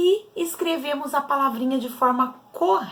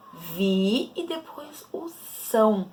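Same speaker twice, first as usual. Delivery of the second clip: slow syllable drill; slower than usual. Shown as a demonstration. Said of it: "vejo qual é a sílaba T".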